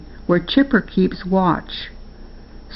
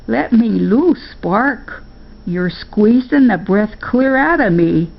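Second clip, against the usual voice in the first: a lightly voiced grandma, squeezed and a bit higher; flustered grandma; 4 semitones higher than usual. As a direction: protest while being hugged tight.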